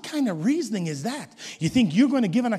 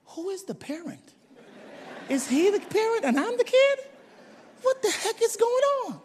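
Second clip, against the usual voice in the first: rueful disbelief; 11 semitones higher, 4 dB quieter than usual. Retold or imitated. Father's rueful self talk.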